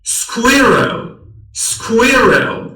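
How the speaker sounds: سکویرل said slowly as skwe-rel; drawn-out teacher drill of سکویرل; slow careful repeat; slow model. Shown as a demonstration.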